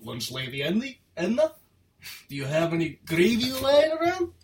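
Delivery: lightly voiced Scottish cartoon character; a touch of botched Scottish; Groundskeeper Willie. Co-host carrying on the impression, loose Scottish accent. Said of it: "that's groundskeeper Willie".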